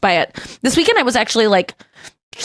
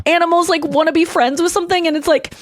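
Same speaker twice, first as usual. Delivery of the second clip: close to tears; 7 semitones higher than usual. Real, not acted. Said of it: "I'm gonna cry now thinking about it".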